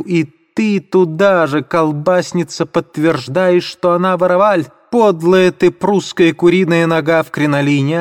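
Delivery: high-pitched indignant outcry; shrill, shocked accusation; Katerina shrieking. Acted. Katerina turning on the landlady, high shrill outcry.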